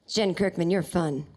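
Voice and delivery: lightly voiced low impression; a singer. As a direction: drop low, as a celebrity impression. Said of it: "And he said".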